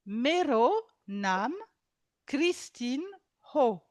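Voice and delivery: slow, careful Nepali phrase; slow teaching demo. Shown as a demonstration. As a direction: spell it out slowly. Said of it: "Donc, Mero, mon".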